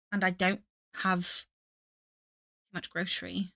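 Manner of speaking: slipping into a light British accent; accidental British accent. Real, not acted. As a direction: let a British accent creep in. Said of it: "British accent".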